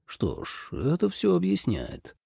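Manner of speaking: very soft mumble; hushed, half-voiced realisation; muttering. A narrator's reading. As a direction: mutter it to yourself. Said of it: "тут же пробормотал".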